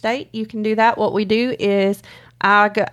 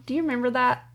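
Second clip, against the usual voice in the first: ordinary delivery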